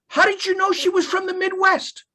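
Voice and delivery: high, amused question through laughter; high-pitched laughing disbelief. Retold or imitated. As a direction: ask it while cracking up. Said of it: "He starts laughing, crying".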